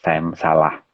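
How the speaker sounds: low, subdued demonstration apology; plain humble apology, falling low; model apology. Shown as a demonstration. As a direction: show a simple, unargued admission of fault.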